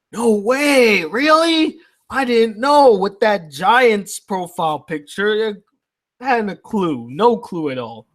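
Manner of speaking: mock amazement, high and sarcastic. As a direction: fake surprise, laying it on thick. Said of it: "Just kidding".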